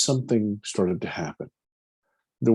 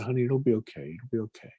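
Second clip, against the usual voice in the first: soft, fading reassurance; a mother calming her child; soothing mother; 5 dB quieter, faster than usual. Retold or imitated. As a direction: gently hush a frightened boy. Mother comforting the scared child.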